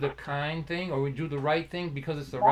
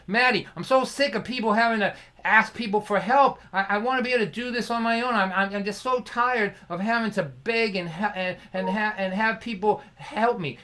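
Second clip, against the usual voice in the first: higher, louder exasperated griping; complaining; 6 semitones higher, 6 dB louder than usual. Retold or imitated. Young storyteller venting to an elderly friend, complaining. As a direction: vent your frustration, pitched up and insistent. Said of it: "I was complaining".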